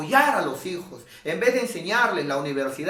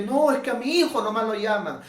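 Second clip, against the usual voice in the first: complaining mother; 5 semitones higher than usual. Retold or imitated. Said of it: "y no de repente".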